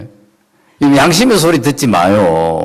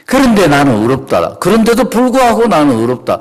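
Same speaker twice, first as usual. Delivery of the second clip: raised, declaring voice of a believer; bold confession; 5 semitones higher than usual. Acted. Believer declaring to the devil, bold and raised. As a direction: proclaim it boldly to the congregation.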